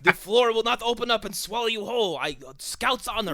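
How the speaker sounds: high, hammed-up fake-honest servant; obvious liar voice. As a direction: sell an obvious trap with a wink. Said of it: "I'm a bad guy, wink".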